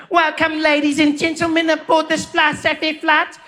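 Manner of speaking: attendant announcing safety on the phone; flight attendant. Retold or imitated. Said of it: "that woman took the phone and she's like".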